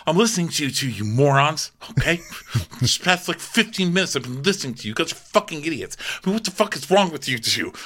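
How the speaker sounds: mock scolding. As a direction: scold them like a boss. Producer scolds cast.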